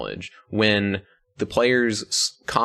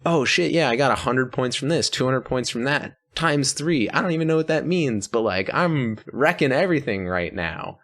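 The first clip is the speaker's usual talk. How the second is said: excited; 6 semitones higher than usual. Pretend. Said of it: "I wanna be like".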